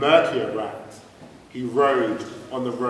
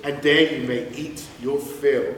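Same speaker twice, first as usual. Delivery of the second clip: sly duck voice; 3 semitones higher, 4 dB louder than usual. Acted. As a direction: lure him in with sweet promises. Duck's tempting offer.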